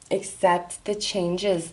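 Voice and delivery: words stretched through a yawn. Real, not acted. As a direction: say it mid-yawn. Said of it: "I, I yawned".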